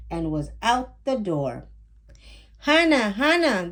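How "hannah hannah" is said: higher, louder call; mother calling her daughter from upstairs. Acted. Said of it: "their mother called from upstairs".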